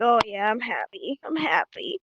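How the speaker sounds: mildly glum, mismatched delivery; mock-sad happy. Shown as a demonstration. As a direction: act unconvincingly happy, voice sagging. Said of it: "I'm not gonna have a sad face".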